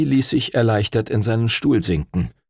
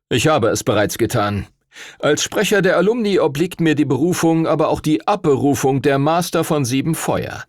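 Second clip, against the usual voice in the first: lecturing official; 6 semitones higher than usual. Acted. Stuart Todd cites the statutes to Duncan, stern official tone. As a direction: lay down the law with cool authority.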